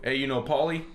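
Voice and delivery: slightly hammed-up neighborhood-guy question; joke Boston guy. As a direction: lightly put on the running-joke voice. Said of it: "we always make this joke".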